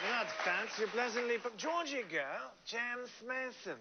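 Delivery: a light suave James Mason delivery; James Mason impression. Host continuing his James Mason impression for the guest, lightly voiced. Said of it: "This is a really good James Mason".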